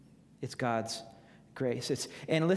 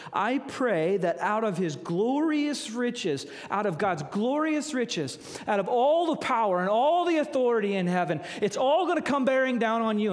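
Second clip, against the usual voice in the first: building fervent prayer; 4 semitones higher, 3 dB louder than usual. Retold or imitated. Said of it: "He says".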